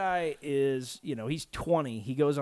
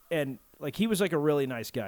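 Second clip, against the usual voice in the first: ordinary talk, nothing marked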